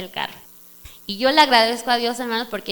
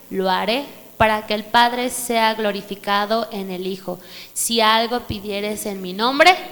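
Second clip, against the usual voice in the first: scripture reading. Acted. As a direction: read the verses reverently. Reads scripture.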